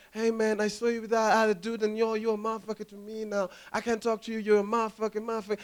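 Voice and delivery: put-on soft, easy African American accent. Comic showing how African Americans sound, soft imitated African American accent. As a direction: imitate a smooth African American speaker, quietly. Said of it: "I like how African Americans sound".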